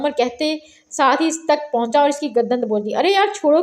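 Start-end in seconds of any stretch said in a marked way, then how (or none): 2.9-3.6 mock shout. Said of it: "Hamza ने चीख कर कहा".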